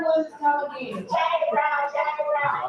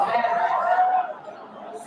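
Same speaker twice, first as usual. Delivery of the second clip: high squeal. Acted. Punchline sung high.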